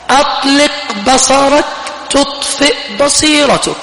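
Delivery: slow, high, measured proclamation; preacher's maxim. Real, not acted. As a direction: ring out each word slowly, pitched high. Preacher chants out a slogan.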